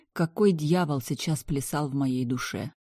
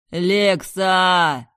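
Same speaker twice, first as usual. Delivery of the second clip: higher and much louder; desperate shout; 4 semitones higher, 8 dB louder than usual. Acted. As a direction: yell her name. Brother yelling.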